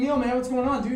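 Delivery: hearty greeting. Retold or imitated. Drunk guy greets the skinhead outside the bar, hearty greeting. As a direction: call out to him like an old buddy.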